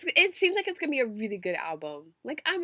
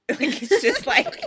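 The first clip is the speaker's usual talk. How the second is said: real laughter breaking up the words, louder; laughing while talking; 7 semitones higher, 10 dB louder than usual. Real, not acted. Podcast host joking about a skinny singer, laughing. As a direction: start the comparison already cracking up. Cracking up over skinny-man comparison.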